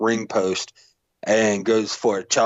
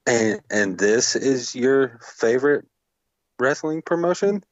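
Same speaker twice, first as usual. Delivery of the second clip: incredulous wife; 4 semitones higher than usual. Retold or imitated. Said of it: "She's like".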